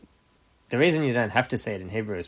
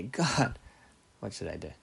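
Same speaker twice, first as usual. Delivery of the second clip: humble plea. Acted. Believer turning to God for guidance, humble plea. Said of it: "There's a big difference, right?".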